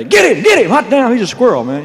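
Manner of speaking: a crowd screaming after a long-haired singer, mock shout; mock crowd yelling. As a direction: yell it like a mob chasing a star. Fans chasing him in the street.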